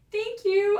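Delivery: high, sweet acted thanks; coyly flattered. Acted response to compliment back.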